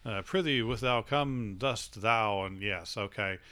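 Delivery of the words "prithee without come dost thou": slow, grand mock-Shakespearean line; stagey fake archaic declaiming. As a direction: ham up old comic-book Thor speech. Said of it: "they all had".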